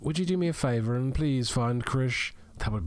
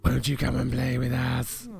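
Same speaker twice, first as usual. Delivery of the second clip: creepy twin voice. Acted.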